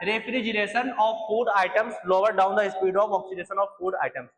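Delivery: very slow, every word separate, for note taking; slow dictation. Shown as a demonstration. Teacher to students copying notes, slow dictation. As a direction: read it out slowly so they can copy.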